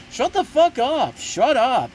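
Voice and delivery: mock the actor's overblown shouting; mocking line reading. Reviewer mocking a singer-turned-actor's line reading, hammed-up yell. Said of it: "Just the line readings from".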